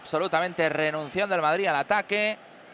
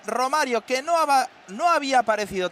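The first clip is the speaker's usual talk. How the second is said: excited commentary; 9 semitones higher, 3 dB louder than usual. Real, not acted. Commentary after goal.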